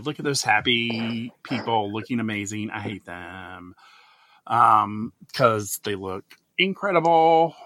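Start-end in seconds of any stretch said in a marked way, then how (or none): 0.0-3.8 mock jealous. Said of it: "be a jealous bitch and go".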